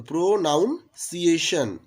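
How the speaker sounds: "প্রোনাউন্সিয়েশন" in pieces, pro, noun, ciation; broken-up pronunciation. Shown as a demonstration. Teacher repeating the spelling trick, "প্রোনাউন্সিয়েশন" split as pro-noun-ciation. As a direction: pause inside "প্রোনাউন্সিয়েশন" after a full "noun". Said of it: "যদি ভেঙে উচ্চারণ করি".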